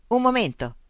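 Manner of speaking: high-pitched call to halt. A narrator's reading. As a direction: call out to stop someone. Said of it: "gridò Mitch".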